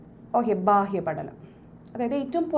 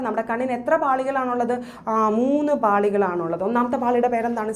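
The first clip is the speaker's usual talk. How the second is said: class recitation. Shown as a demonstration. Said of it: "എൻ്റെ ഒപ്പം ഒന്ന് പറഞ്ഞേടാ".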